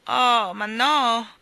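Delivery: loud, high, very drawn-out; dismayed. A narrator's reading. Jane searches pockets for money, dismayed. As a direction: stretch it out in dismay. Girl realises she lacks money.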